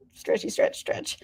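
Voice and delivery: soft breathy whisper mid-stretch; whispered while stretching. Real, not acted. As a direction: breathe the words out as you stretch. Stretching at her desk.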